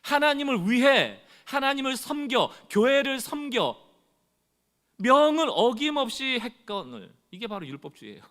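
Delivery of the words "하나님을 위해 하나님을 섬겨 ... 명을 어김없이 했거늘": slow, higher and louder, every phrase pressed out; aggrieved elder son. Retold or imitated. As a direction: spell out each duty with resentment. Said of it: "화가 나서 얘기를 하는 겁니다". (억울한 듯 느리고 높게)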